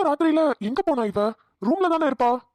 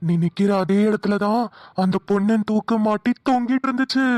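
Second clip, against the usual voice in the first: husky spooky voice; 2 semitones lower than usual. Acted. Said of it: "husky voice".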